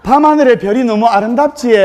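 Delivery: Gyeongsang wife saying '밤하늘의 별이 너무 아름답지' bluntly in dialect; blunt Gyeongsang take on the romantic line. Retold or imitated. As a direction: Gyeongsang wife copying the Seoul bride's line flatly. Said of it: "경상도 신부가".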